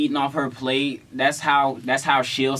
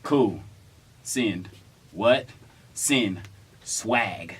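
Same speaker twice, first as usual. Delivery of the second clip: mock terse comments; 5 semitones lower, 6 dB quieter, much slower than usual. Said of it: "one word per picture, she would be like".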